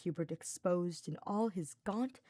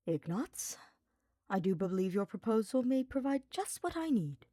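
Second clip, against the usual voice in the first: small smile; 4 semitones higher than usual. Acted. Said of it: "Hubert said with a small smile".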